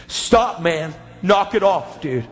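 mildly overwhelmed refusal; protesting. Retold or imitated. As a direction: push the gift away with punched words. Friend refuses gift, overwhelmed.

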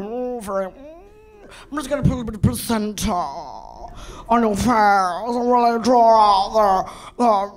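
slow, lightly voiced gentle spa therapist; soothing spa lady. Day spa lady soothing a client, slow gentle voice. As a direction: coo it slowly like a day spa beautician. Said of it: "The ladies are all".

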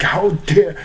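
clumsy high, loud yell. Retold or imitated. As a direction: re-enact outraged yelling at someone hated. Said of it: "clumsily I yell".

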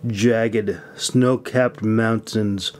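measured audiobook reading, lingering on descriptions; story narration. Acted. Author reading his fantasy chapter aloud to listeners, steady storytelling narration. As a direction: read it like an audiobook narrator setting the scene.

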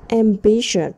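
Ambitious with BI stressed; stress on second syllable. Shown as a demonstration. Teacher modelling stress for the class, second syllable stressed. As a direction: lean on the second part of Ambitious. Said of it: "Ta nhấn phần hai".

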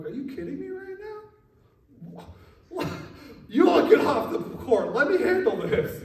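high incredulous start, bursting into loud orders; outraged dad. Retold or imitated. Dad to trash-talking high schoolers at the park, outraged. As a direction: take charge like a riled-up dad. Dad mode kicks in, retold.

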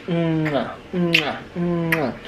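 playful kiss smacks; blowing kisses to the baby. Pretend. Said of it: "Give Daddy kisses".

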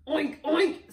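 two punchy pig noises; pig oink. A narrator's reading. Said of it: "says Pig".

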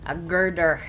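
playful Scottish burr on GIRDER; Scottish accent. Shown as a demonstration. Player echoing an Irn-Bru advert, Scottish accent. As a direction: say it like a Scot in an advert. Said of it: "I have to say it in a Scottish accent".

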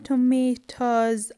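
"tomatoes" ending in a voiced z; final S as Z. Shown as a demonstration. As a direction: buzz the end of "tomatoes". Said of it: "I pronounce the S".

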